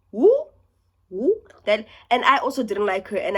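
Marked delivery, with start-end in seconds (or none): 0.1-1.4 high squeaky cheer; a sarcastic whoop; mock-cheering the job interviews; mock woo. Real, not acted.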